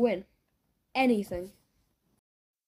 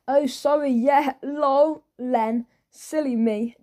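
put-on ditzy girlfriend; 3 semitones higher, 3 dB louder, slower than usual. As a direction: brush it off, giggly and careless. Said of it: "she said".

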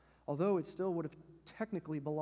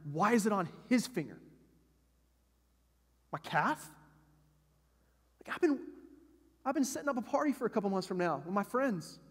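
put-on indignant older brother; 2 semitones higher, 3 dB louder than usual. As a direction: play the wronged big brother losing it over his stuff. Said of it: "and he's going".

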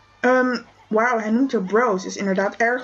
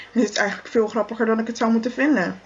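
laughing. Acted. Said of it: "het is veel grappiger dan".

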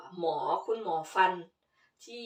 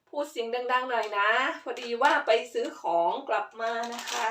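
ordinary talk, nothing marked

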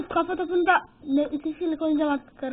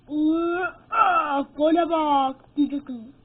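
frustrated groan; 6 dB louder, much slower than usual. Real, not acted. Groaning at missed goal.

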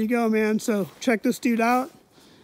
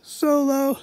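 out of breath; 3 semitones higher, slower than usual. Real, not acted. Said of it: "I'm all winded".

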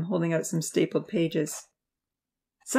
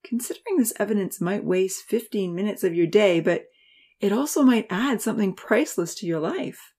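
pleading tone; 4 semitones higher than usual. Acted. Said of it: "In a pleading tone".

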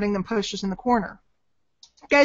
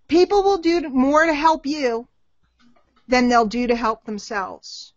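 slow, deliberate dictation pace. Shown as a demonstration. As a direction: say it slowly so they can write it down. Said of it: "Write this down".

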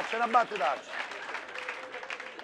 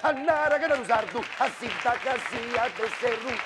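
gibberish vocal warm-up; 3 semitones higher, slower than usual. Shown as a demonstration. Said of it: "io così scaldo la voce".

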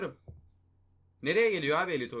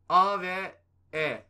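slow tense reveal; 6 dB louder, much slower than usual. Real, not acted. Announcing letters tensely.

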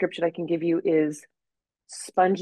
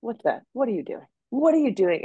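indignant; 5 semitones higher than usual. Retold or imitated. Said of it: "looked at her like".

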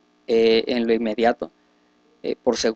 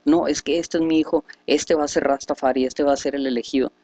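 madre vanidosa; 3 semitones higher than usual. Retold or imitated. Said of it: "no lo toman las madres porque siguen en su vanidad".

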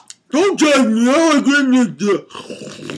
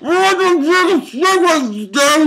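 angry outburst; 6 semitones higher, slower than usual. Real, not acted. Outburst mid rant.

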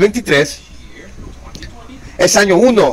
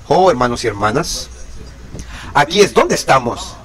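pleading low; 3 semitones lower, 3 dB quieter than usual. Real, not acted. Preacher addressing congregation.

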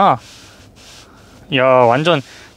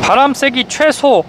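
slow, higher, carefully spaced words; very slow command; 7 semitones higher, slower than usual. Shown as a demonstration. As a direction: spell it out slowly for the machine. Voice command to car.

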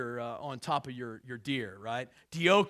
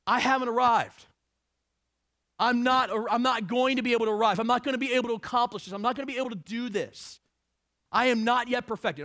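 impassioned Paul quote; 6 semitones higher, 6 dB louder than usual. Acted. Preacher voicing Paul's confession.

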